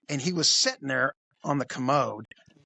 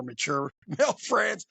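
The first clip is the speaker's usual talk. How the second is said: imitating a cartoon creep, rising at the end; leering cartoon pervert impression; South Park creep; 2 semitones higher than usual. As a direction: suggestive creep voice, lifted on the last word. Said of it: "That's how he talked".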